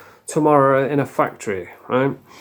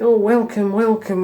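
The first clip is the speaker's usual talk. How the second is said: mock high welcome; 6 semitones higher than usual.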